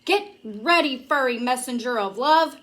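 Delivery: playful mock shout. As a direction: shout the warning before launching. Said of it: "shouted to Grover".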